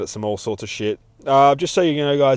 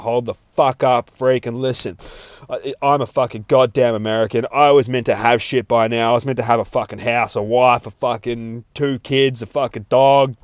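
loud, aggrieved redneck rant, louder; 5 dB louder than usual. Acted. Redneck ranting at a freak about the American dream, loud and aggrieved. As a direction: bang on like a fed-up redneck. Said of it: "banging on about".

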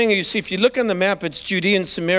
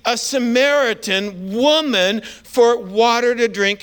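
shocked woman; 3 semitones higher than usual. Retold or imitated. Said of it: "she's shocked".

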